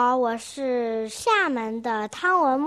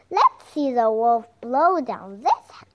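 boasting; 7 dB louder than usual. Acted. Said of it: "boasted the third little pig".

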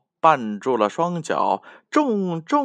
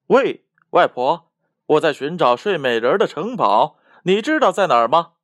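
a lightly voiced marquis, louder and fast; hurried marquis; 2 semitones higher, 4 dB louder, faster than usual. Marquis stopping grandma to ask the way, fast eager question. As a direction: rattle off the question in a rush. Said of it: "一位侯爵叫住了他".

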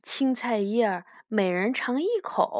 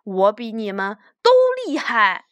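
louder gloating; smug boast; 5 dB louder than usual. Acted. Strongest rabbit bragging to the other rabbits, smug boast. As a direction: lord it over the others, louder. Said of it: "他突然觉得好得意".

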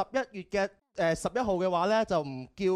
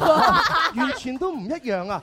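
laughing; 5 semitones higher, 8 dB louder, slower than usual. Real, not acted. Laughing reply to joke.

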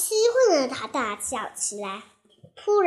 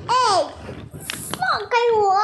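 angry protest; 6 semitones higher than usual. Acted. Tied-up wolf shouting at the children, angry. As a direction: struggle against the ropes.

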